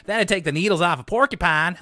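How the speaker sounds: a touch of hammed-up Southern twang; LaDonna's Southern accent. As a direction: imitate a folksy Southern girl's accent. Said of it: "speak in a Southern accent".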